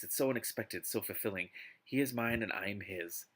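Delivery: dramatic novel reading; expressive audiobook narration; story narration. Acted. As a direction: read it out like an overwrought romance audiobook. Reads a novel aloud.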